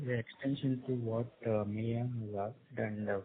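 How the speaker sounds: barely audible, far from the mic; speaking very softly, voice fading out; too quiet. Real, not acted. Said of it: "Your voice is very low".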